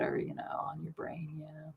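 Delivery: soft reassuring whisper; whispered comfort, quick. Real, not acted. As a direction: hush the worry away. Soothing a worried client.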